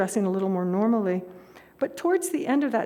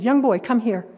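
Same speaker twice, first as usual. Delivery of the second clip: put-on louder, calling a boy over; 6 dB louder than usual. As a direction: call him across the square. Stranger calls boy over.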